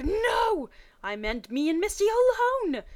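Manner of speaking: high, loud exasperated no; frustrated outburst. Acted. Ash thinking in frustration about Brock tagging along, high and loud. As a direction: blurt it out, fed up.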